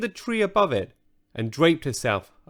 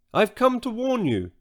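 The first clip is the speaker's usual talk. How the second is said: put-on young girl voice; 10 semitones higher than usual. Girl Kia warns unicorn.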